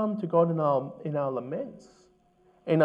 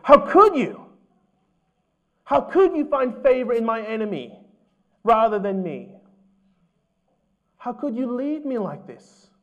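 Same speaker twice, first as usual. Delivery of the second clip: high, loud, bitter cry of blame; angry accusation; 5 semitones higher, 5 dB louder than usual. Retold or imitated. An angry sufferer accusing God in a high, loud voice. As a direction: hurl the question at God as an accusation. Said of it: "He doesn't come angrily to God and say".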